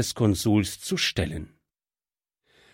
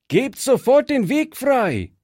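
commanding call; 11 semitones higher than usual. A narrator's reading. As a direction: demand they clear the road. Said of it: "rief Fritz". (Fritz ruft den Banditen einen hohen, lauten Befehl zu)

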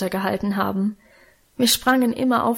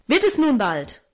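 angry shout; 4 semitones higher than usual. A narrator's reading. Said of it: "rief er zornig".

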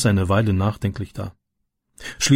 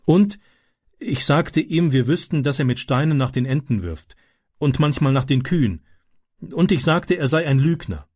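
put-on indignant girl recounting; 3 semitones higher than usual. Daughter tells mother what she accused the boy of, mildly indignant.

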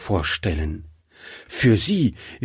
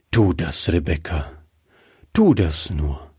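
lightly voiced old man, a bit lower; easygoing old husband; 4 semitones lower than usual. Old husband sends his wife off, lightly voiced and lower. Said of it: "sagte der alte Mann".

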